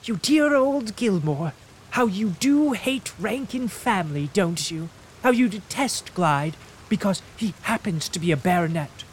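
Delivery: mock-affectionate invalid teasing; playful teasing. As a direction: tease him like a fond old friend.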